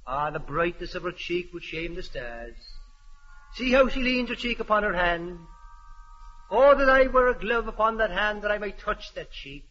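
hammy Shakespeare actor, low and soft; Romeo. Acted. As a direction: declaim the balcony scene grandly. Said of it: "I read the part of Romeo".

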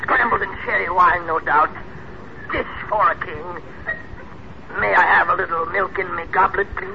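lordly grandeur. Acted. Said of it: "you sound so, uh, so regal".

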